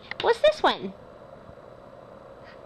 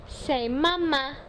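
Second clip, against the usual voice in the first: slower prompt; 3 semitones higher, slower than usual. Shown as a demonstration. Mother repeats the word for her toddler, slowed down. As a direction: say mama slowly, stretching each word.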